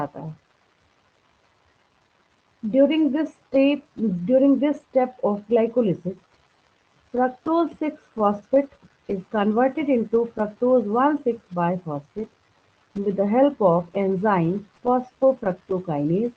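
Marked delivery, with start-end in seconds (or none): 2.6-3.8 very slow, every word drawn out for note-taking; dictation pace. Shown as a demonstration. Teacher dictating to her class, very slow and deliberate. 4.3-16.3 very slow, measured dictation read. Shown as a demonstration. Teacher dictating a glycolysis statement to students, very slow.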